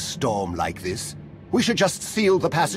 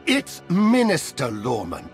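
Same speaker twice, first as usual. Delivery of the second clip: slow, pointed correction; indignant correction; 2 semitones lower, slower than usual. Acted. Slighted minister corrects the rival who mocked him, indignant. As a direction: insist on the proper title.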